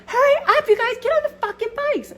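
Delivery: very high, hyped-up yelling; drunken friends. Retold or imitated. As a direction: hurry everyone along in a shrieky party voice. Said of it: "all of them are all fucked up".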